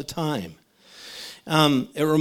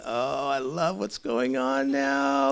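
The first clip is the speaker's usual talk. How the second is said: amused Jesus; slower than usual. Retold or imitated. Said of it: "sitting there with one eye open going".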